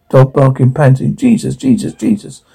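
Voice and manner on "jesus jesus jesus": high, shaky-edged panicked whispers of Jesus; breathless frightened gasps. Acted. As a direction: gasp the name in sudden fear. Frightened man in chase.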